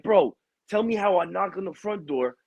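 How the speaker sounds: high, worked-up storytelling; excited retelling. Retold or imitated. Telling the boss about the kid jumping off the deck, high and excited. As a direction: pitch up, tell it like you can't believe it. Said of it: "I'm like".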